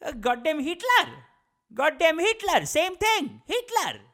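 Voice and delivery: loud, high-pitched hammed-up yelling; mock furious dad, shouting high; outraged dad impression. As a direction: bellow it as an outraged father. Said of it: "And my dad goes".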